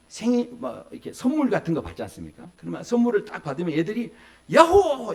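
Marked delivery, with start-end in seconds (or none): 4.5-5.1 put-on high, loud child's cheer; yelling yahoo. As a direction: shout it out like a delighted kid. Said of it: "이렇게 소리치고". (아이처럼 크게 외치는 환호)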